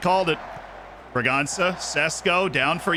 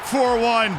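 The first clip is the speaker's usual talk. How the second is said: high, elated goal call; celebratory, high-pitched crowing; triumphant proclamation; 7 semitones higher than usual. Real, not acted. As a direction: proclaim it proudly like a commentator.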